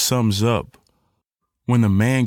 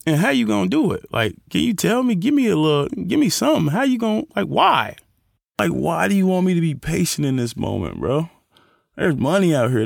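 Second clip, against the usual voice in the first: complaining to God; 4 semitones higher than usual. Retold or imitated. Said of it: "then you're like".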